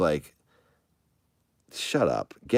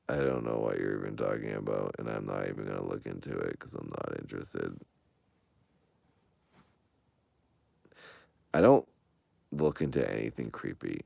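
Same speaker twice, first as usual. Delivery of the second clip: soft spoken; 7 semitones lower, 7 dB quieter than usual. Real, not acted. Held soft voice.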